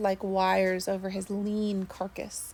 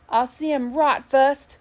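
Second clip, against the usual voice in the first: higher, louder, slow snarl; 4 semitones higher, 6 dB louder than usual. A narrator's reading. Beaten Sneed refuses to shake hands, slow loud snarl. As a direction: spit the refusal with hatred. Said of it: "snarled Sneed".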